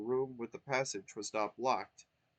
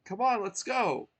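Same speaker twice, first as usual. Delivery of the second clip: urging; 10 semitones higher, 8 dB louder than usual. Acted. Twink urging Mario.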